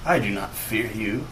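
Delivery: lightly voiced brooding villain; a hint of a menacing wizard; villain monologue. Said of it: "goes into his monologue".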